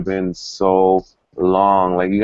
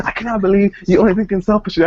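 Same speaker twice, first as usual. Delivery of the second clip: quick, higher mock-angry scolding; imitating mad friend; 10 semitones higher, faster than usual. Imitating a friend who scolds her for selfishness, mock angry. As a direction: play her snapping at you for being selfish. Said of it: "She was so mad at me".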